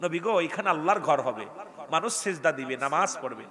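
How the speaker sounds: normal talking voice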